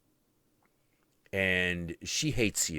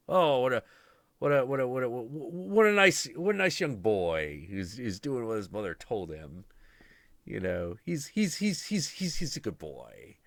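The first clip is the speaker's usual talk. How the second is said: fawning gods; 4 semitones higher than usual. Retold or imitated. Gods praising boy.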